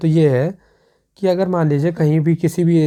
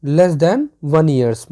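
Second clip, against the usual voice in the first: each word drawn out very slowly, stress on than; slow repeat; much slower than usual. Shown as a demonstration. Teacher repeating the phrase very slowly for students. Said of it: "क्या?".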